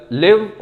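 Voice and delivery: लिव with a short i, not लाइव; short i live. Shown as a demonstration. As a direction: say लिव like the verb, short vowel. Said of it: "इस word का pronunciation लिव है, लाइव नहीं है". (लिव छोटी इ के साथ)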